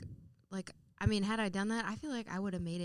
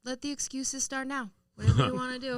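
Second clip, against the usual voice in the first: teasing dad; 6 semitones higher, 8 dB louder than usual. Retold or imitated. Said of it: "he's like".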